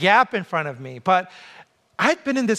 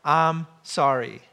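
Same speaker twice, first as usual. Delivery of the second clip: slow, lower model apology; measured apology; 4 semitones lower, slower than usual. Shown as a demonstration. Preacher showing the two powerful words, slow and measured. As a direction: say it slowly, each word given weight. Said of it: "those words are".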